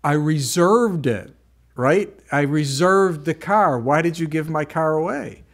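indignant protest. Retold or imitated. Pastor retelling his protest to the rental clerk, indignant and loud. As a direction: press the point that you reserved it. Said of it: "I said".

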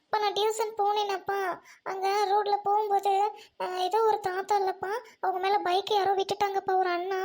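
put-on whiny, tearful child excuse; tearful explaining. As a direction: plead your innocence through tears. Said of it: "நீ அழுகாத". (அழுகையோடு விளக்கம் சொல்லும் குழந்தை)

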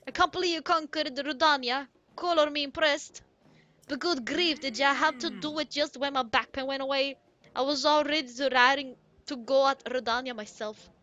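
hearty, animated Goron boss voice; grumbling but impressed Goron boss. Acted. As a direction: play a blustering old Goron with a put-on accent.

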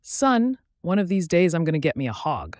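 put-on a father teasing his boy in a light Southern accent; slight southern accent. Dad telling his son about a hog, light Southern accent. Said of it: "with a slight southern accent in his voice".

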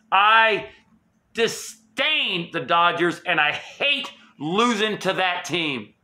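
slow, word-by-word disgust; drawn-out end of an angry rant; slow bitter rant. Real, not acted. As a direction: spit out each word slowly in contempt. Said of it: "The rant is over".

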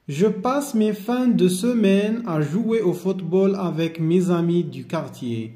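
slow, careful classroom reading; slow model reading. Shown as a demonstration. Teacher modelling the sentence for the class, slowly. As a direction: give each word space, slowly. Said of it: "teacher rereads sentence to pupils".

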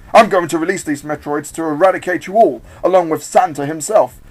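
forceful gloating villain; villainous threat. Acted. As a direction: proclaim the evil plan loudly.

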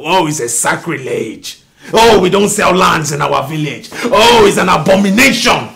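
lightly mocking the stern father; mocking his dad. Son quoting his father's refusal, mild mocking. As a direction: mimic the father's pious refusal. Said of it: "He said".

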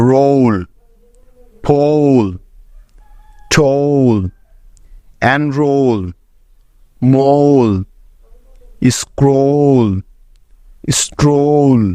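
each word said slowly and clearly, ending on a falling tune; word list demo. Shown as a demonstration. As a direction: model every o sound clearly, word by word. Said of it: "যেমন". (ধীরে স্পষ্ট উচ্চারণে শব্দ তালিকা)

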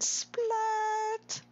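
high, drawn-out splat; high cartoonish splat; voicing a player. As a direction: squeal it out high. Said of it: "Jonathan said".

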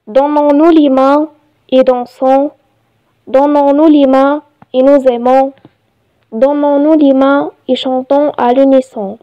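measured reading with pauses between phrases; poem recitation. Shown as a demonstration. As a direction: recite it line by line, evenly paced. (إلقاء قصيدة بتأنٍّ)

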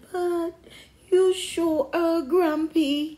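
high, loud storybook mother; teasing mom. A narrator's reading. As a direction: tease your child in a lilting mom voice. Mom teases her grumpy son.

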